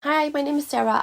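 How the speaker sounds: lightly acted caller introducing herself on the phone; phone greeting. Retelling her phone call to clinic.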